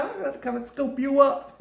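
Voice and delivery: high giggly "scoop you up"; playful hungry tease; laughing craving. Retold or imitated. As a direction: laugh through the promise.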